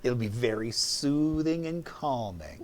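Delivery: slow whispered offer; mock soothing whisper. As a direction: whisper it sweetly, slowly. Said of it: "I thought you were gonna be like".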